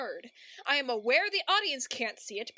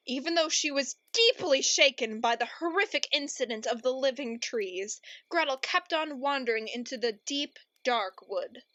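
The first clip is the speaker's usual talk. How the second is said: story narration. Acted.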